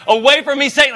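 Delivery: Jesus yelling at Satan, lightly acted; all caps yell. Shown as a demonstration. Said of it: "if that was in all caps".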